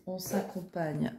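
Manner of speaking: ordinary talk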